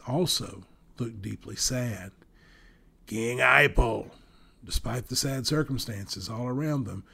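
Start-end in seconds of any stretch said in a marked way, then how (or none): 3.1-4.1 joyful call. A narrator's reading. Glad greeting of old friend.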